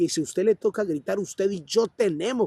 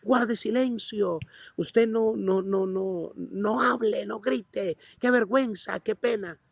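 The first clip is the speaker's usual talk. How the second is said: higher, mock-indignant scolding; scolding bystander; 5 semitones higher than usual. Bystander scolding the shouting beggar, higher and indignant. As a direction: wag a finger at him, lightly voiced. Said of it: "en otras palabras".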